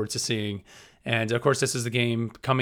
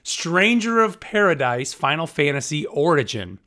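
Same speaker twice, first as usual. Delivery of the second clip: spelled out slowly, word by word; slow, deliberate full title; 3 semitones higher, slower than usual. Shown as a demonstration. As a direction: take it slow so they keep up. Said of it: "I'm gonna say the whole name".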